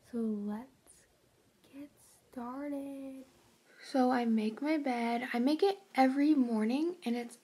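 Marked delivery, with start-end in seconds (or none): 0.1-3.2 whispering. Real, not acted. Early morning, others asleep.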